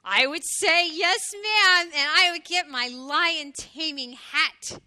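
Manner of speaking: loud, slow, bold promise; eager little hedgehog. A narrator's reading. Little hedgehog promising to tame a lion, eager. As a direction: announce it keenly, stretching the words.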